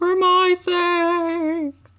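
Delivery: high cartoon voice with the word "sake" drawn out. Quoting Tyrone's final words to Dipper, Tyrone impression. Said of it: "That's my Tyrone impression".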